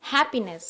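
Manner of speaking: हैप्पीनेस with weight on है; हैप्पीनेस, stressed on the opening है; stress on first syllable. Shown as a demonstration. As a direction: press the है in हैप्पीनेस. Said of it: "है पे stress दिया गया".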